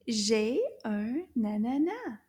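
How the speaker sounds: slow, clear model sentence for repeating. Shown as a demonstration. Teacher models sentence slowly for children to repeat. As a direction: spell out each word slowly for the class. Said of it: "Can you repeat that after me?".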